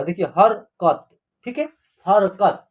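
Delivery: slow हरकत with a half r, har-kat; careful correct pronunciation. Shown as a demonstration. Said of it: "आधा र का उच्चारण यहाँ होगा".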